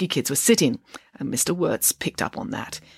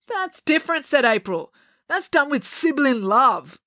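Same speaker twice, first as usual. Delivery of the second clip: put-on high girl voice; 9 semitones higher than usual. April voiced.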